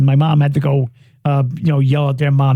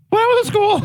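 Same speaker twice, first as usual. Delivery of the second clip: very high squeaky puppet voice; hammy high kid puppet; goofy muffled sock puppet; faster than usual. Pretend. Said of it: "You don't have to do the puppet voice".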